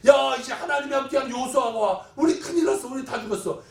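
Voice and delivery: mock panic. Enemies dreading Joshua and his God, acted alarm. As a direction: act out an alarmed enemy camp. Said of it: "미리 벌벌벌 떨고 있으니까".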